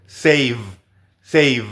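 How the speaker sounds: "save" ending on a v; "save" with the v kept; final v in save. Shown as a demonstration.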